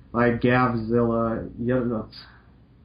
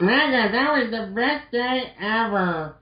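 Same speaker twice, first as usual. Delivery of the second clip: put-on higher, slow dreamy girl voice; dreamy Roll voice; 11 semitones higher than usual. Roll gushing to Mega Man, higher and slow. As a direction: sigh it out lovestruck. Roll's voice.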